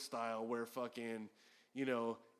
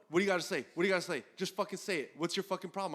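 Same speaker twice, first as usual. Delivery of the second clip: retold challenge, louder; heated; 4 semitones higher, 4 dB louder, much faster than usual. Imitating John pushing for an answer, heated. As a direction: demand an answer, mock confrontational. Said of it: "Sounds a little heated".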